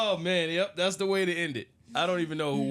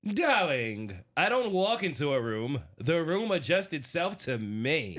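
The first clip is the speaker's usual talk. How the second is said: RuPaul impression.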